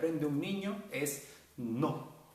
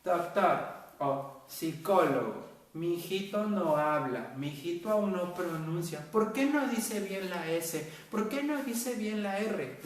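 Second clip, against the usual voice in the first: slow, pleading parent; lightly voiced anxious parent; worried parent; 4 semitones higher, slower than usual. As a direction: whine it like a worried mother. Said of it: "problemas de".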